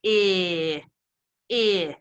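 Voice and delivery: "eh" as a held short-i sound; isolated, drawn-out short vowel "eh". Shown as a demonstration. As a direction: sound out "eh" like the i in big. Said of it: "I says".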